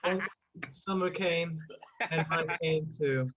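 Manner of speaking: mock-solemn echo of verse; slow pretend stage recital; Shakespearean. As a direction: declaim with deadpan gravity.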